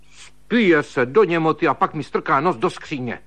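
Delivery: high indignant scolding; angry outburst. Acted. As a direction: lash out at him in fury. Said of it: "rozkřikla se Dášenka".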